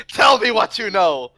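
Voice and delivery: high, loud demand; mock interrogation. Gang member interrogating a horse as a joke, loud demand. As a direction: play a gang tough grilling a captive.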